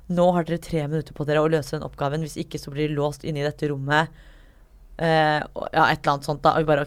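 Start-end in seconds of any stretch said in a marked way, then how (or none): 0.1-4.1 lightly voiced spooky announcer; a hint of menace in the announcement; scary voice. Escape room voice warns the players in a mildly spooky tone. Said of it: "og sånn skummel stemme da".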